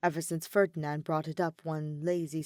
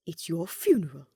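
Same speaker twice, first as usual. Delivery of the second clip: a touch louder, dry wisecrack in a different voice; dry quip; 5 dB louder than usual. A narrator's reading. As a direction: toss off the line as a wry jab. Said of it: "he quipped back".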